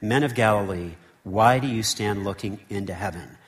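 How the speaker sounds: measured, solemn Bible reading; scripture reading. Acted. Preacher reading Acts to the congregation, solemn and measured.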